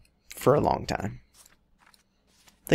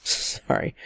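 louder, mock lady's hello; 3 semitones higher, 3 dB louder, much slower than usual. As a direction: put on her voice, pushed up and loud. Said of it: "that's how she sounds".

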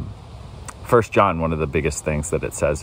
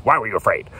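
a mildly sharp, rebuking question; angry; 5 semitones higher, faster than usual. Shown as a demonstration. Pastor demonstrating Jesus rebuking disciples, mildly angry. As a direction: ask it as a light rebuke. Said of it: "whether he was angry".

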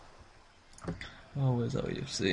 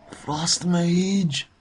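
shouted call-out, higher and louder; excited shout; 6 semitones higher, 7 dB louder than usual. Real, not acted. Gamer calling out the Frost Mage, loud. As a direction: yell the enemy class to the team. Calling out enemy class in fight.

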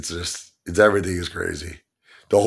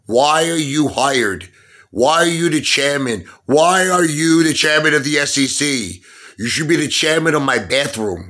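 exasperated, indignant rant; indignant demand; 6 semitones higher than usual. Real, not acted. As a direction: grill him with raised pitch. Rant addressed to absent SEC chairman.

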